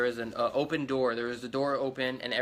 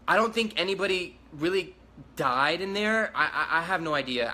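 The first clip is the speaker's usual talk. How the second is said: nervous laugh; 4 semitones higher than usual. Real, not acted. Nervous laugh about shooting.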